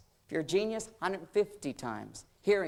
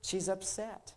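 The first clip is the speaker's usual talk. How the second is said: calm self-talk; 10 dB quieter than usual. Acted. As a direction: reason it out quietly to yourself. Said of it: "And I stand there like".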